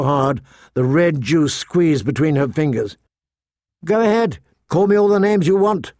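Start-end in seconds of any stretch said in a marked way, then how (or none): 3.8-5.9 put-on higher, airily dismissive girl's voice; airy. A narrator's reading. Sansa answers her sister's name-calling, airily. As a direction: wave off the insult airily. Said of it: "Sansa said airily".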